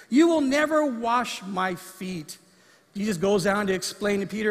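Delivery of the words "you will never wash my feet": protesting. Acted. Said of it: "Peter protested".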